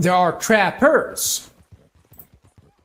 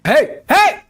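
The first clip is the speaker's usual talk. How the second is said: panicking gamer; 10 semitones higher, 6 dB louder than usual. Real, not acted. Horse being stolen, yelling.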